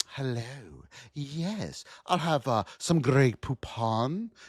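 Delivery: slow, refined, upscale put-on manners. Joking about how guests talk on a fancy cruise line: mock fancy cruise passenger voice. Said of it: "you have to go up like this".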